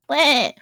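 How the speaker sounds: sheep bleat. Acted. Happy Cilantro rejoining their brother, short sheep bleat. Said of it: "and they're like".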